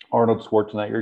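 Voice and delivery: choking mid-word. Real, not acted. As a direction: get the name out while choking. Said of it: "excuse me while I'm choking here".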